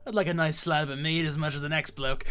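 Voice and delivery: rough bandit telling a grim story; callous raider, bragging and cold; gruff outlaw. Acted. Voices an outlaw telling his tale.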